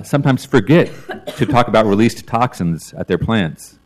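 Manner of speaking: amused, with a chuckle; laughing. Real, not acted. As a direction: laugh through the jab. Sarcastic jab at Intel.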